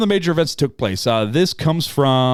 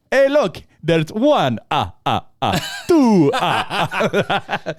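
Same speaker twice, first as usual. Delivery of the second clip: laughing counting; 5 semitones higher, much slower than usual. Pretend. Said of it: "he goes".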